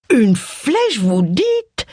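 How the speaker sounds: high, choked shocked question; choked surprise. A narrator's reading. Old aunt hears of the arrow, choking with shock. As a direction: gasp out the question in dismay. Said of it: "s'étrangla Missis Stacy".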